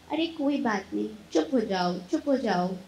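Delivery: put-on soft, gentle hush to an upset child; loving tone. Shown as a demonstration. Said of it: "प्यार से बोलते हैं". (प्यार से, नरम आवाज़ में)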